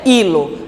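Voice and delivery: "hilo" starting on a clear I, silent H; I sound. Shown as a demonstration. Teacher showing the opening sound, "hilo" said as ee-lo. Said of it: "ele tem um som de I".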